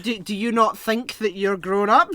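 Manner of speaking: loud, laughing mock disbelief; teasing through laughter. Real, not acted. Co-host teasing his friend about growing up, laughing loudly. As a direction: rib your friend while cracking up. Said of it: "I was like".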